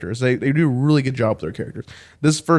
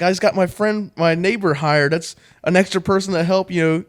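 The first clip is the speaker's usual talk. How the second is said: higher, eager pleading sidekick voice; lightly voiced sidekick selling his help; 6 semitones higher than usual. Pablo pleading with Ash to stay, higher eager voice. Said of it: "He's like".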